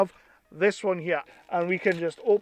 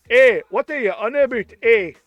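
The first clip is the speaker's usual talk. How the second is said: attempted Canadian accent; badly faked Canadian; 7 dB louder than usual. Joking as the Canadian wrestler, mock Canadian accent. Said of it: "That was meant to be Canadian".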